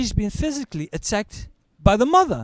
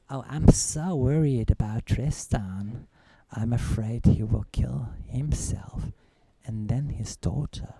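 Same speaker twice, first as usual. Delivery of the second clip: mock worried ex; 6 semitones lower than usual. Ex's fake worry to family.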